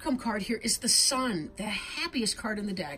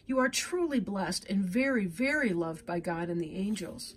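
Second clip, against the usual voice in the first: steady, gentle reading aloud from a card book; guidebook reading. Acted. Tarot reader to Leo viewer, reading the card's message gently. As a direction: read it like a soothing oracle message.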